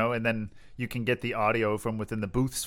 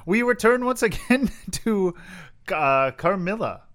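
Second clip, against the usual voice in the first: grand announcer; 9 semitones higher, 6 dB louder, slower than usual. Pretend. Announcing the story segment.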